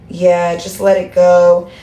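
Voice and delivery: slow, drawn-out mock of "just let it go"; mocking quote. Mocking the viewers' advice, slow and drawn out. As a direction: stretch "let it go" slowly to mock it. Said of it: "acting like".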